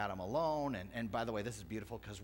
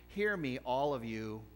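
raised, louder call to the crowd; 2 semitones higher, 5 dB louder than usual. Acted. Preacher voicing Jesus calling the crowd, raised call. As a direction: call out to all of them, louder.

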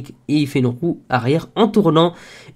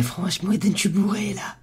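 put-on drunk voice; 4 semitones higher, 8 dB quieter than usual. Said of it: "je sais pas imiter le bourré".

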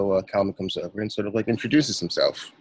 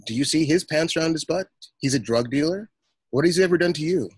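heated retort, pitched up and getting louder, faster at the end; flipping out; 7 semitones higher, 4 dB louder than usual. Acted. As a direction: snap back at the passenger, rising in anger. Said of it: "I kind of flip out on him".

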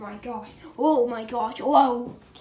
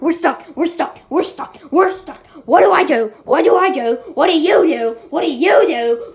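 panicked cry; 3 semitones higher, 11 dB louder than usual. Pretend. Kids pretend trapped, panicking.

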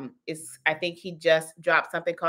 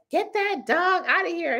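high-pitched mock complaint; mimicking nasty commenter; 12 semitones higher than usual. Reading out a nasty comment about her dog, high mock complaining. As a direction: mimic an online grump in a much higher voice. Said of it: "Somebody left a really nasty comment".

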